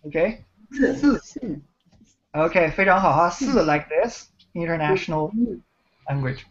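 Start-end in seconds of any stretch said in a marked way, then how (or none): 0.7-1.6 四 said with a quick drop; falling tone. Shown as a demonstration. Teacher repeating the tone for a student, 四 falling. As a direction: let the pitch of 四 fall straight down.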